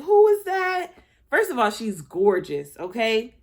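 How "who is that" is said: startled question. Retold or imitated. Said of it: "I was like".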